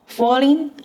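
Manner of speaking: "falling" said with the voice dropping in pitch; falling tone demo. Shown as a demonstration. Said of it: "also third tone".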